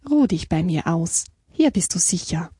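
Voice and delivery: gently reassuring beaver; calm reassurance. Acted. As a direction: settle a trembling guest calmly. Beaver reassures the trembling hare. (ruhig beruhigend)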